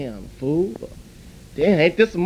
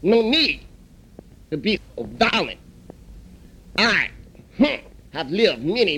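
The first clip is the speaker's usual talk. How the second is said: put-on calm old shop elder. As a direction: settle the fight like a wise old man. Elder owner steps in calmly.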